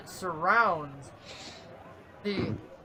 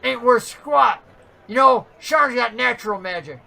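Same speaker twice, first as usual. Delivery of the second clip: scornful halfling; 2 semitones higher, 6 dB louder than usual. Acted. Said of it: "He goes".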